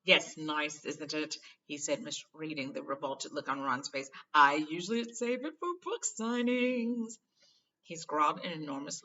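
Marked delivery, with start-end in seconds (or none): 0.0-7.2 loud boastful showman, slow at the end; vain Lockhart. Acted. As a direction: show off the quill proudly. Lockhart voiced.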